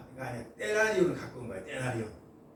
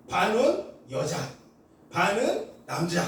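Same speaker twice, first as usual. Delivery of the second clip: slow deliberate; slower than usual. Shown as a demonstration. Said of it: "반이 나눠져 있어".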